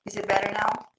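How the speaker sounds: glitchy robotic voice; choppy digital connection voice. Real, not acted. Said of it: "sounds like you're like a robot voice".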